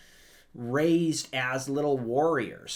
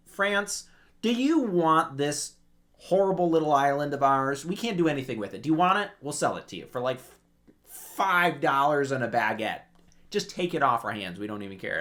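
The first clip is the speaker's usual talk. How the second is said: high, loud, exasperated offer to hand it over; pushing the island off on someone, hammed up; mock Corsicans giving up; 4 semitones higher, 6 dB louder than usual. Corsicans begging France to take the island, high and loud. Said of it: "they're like".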